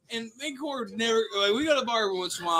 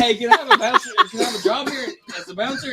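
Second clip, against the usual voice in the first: tough-guy request; 6 dB louder than usual. Retold or imitated. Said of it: "Don't say it like you did".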